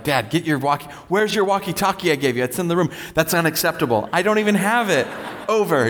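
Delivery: put-on high, indignant little girl on the walkie-talkie; imitating his daughter. Dad imitating his daughter scolding him over the walkie, high and indignant. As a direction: squeak it out like a bossy seven-year-old.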